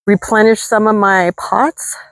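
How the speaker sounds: breathless whispery words from the heat; puffing, barely any voice left; out of breath. Real, not acted. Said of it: "I can't even talk right now 'cause it's so hot out".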